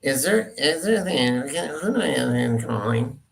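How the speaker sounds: lightly mimicked geeky call-screening voice; geeky guy voice. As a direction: put on a hint of a geeky guy asking who's calling. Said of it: "It's like a geeky white guy voice".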